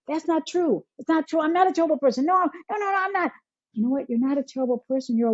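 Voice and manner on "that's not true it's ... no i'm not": protesting blame. Acted. Acted self-talk answering someone's blame, protesting. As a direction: plead your innocence, pitched up.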